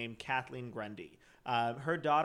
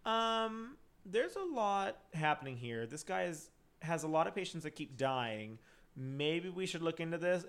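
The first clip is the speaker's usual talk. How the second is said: imitated tentative suggestion; hesitant whistleblower; 4 semitones higher than usual. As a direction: lightly mimic someone tentatively raising concerns. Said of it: "there was someone who was like".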